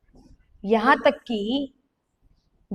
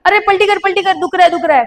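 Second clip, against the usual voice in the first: higher, louder imitation of a grandmother in pain; mock pained cry; 5 semitones higher, 5 dB louder, faster than usual. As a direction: call out like the grandmother in pain, half-acted. Paralysed grandmother crying out in pain.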